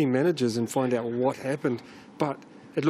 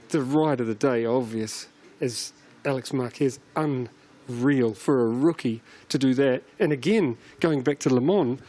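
muffled behind a mask; talking through a face mask. Real, not acted. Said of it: "excuse my mask".

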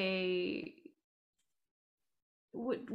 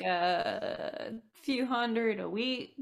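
chuckling through the offer; laughing; 5 dB louder, slower than usual. Real, not acted. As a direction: laugh while you haggle. Laughing while haggling.

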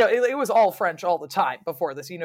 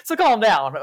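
mock calm down; 6 semitones higher, 9 dB louder than usual. Mocking the English reaction.

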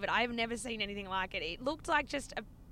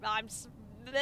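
tongue-tied, tripping over the words; start, stumble and give up in a garble; imitating flustered stammering; retold speechless stammer. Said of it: "I literally couldn't speak".

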